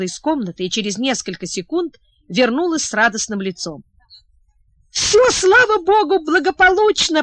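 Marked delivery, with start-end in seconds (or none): 4.9-7.2 almost shout the good news; joyful near-shout. Acted. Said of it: "почти закричала она".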